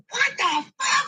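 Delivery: high, slow, stretched out in disbelief; shocked outburst. Retold or imitated. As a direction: drag it out way up high, outraged. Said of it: "Steph goes".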